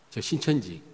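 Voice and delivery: ordinary delivery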